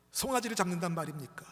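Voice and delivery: indignant questions, climbing high; acted outrage ending in a high cry; angry protest. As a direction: demand an answer from father. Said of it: "막 분노하는 거예요".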